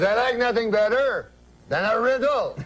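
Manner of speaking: put-on keen, comic French-Canadian accent; Jean-Luc. Uncle tells cab driver he likes riddles, French accent. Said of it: "That's how he talks".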